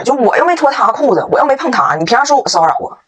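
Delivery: mock-aggrieved protest, starting high; indignant protest. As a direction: plead innocence like a wronged kid. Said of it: "我老公当时很不服啊". (模仿不服气地辩解)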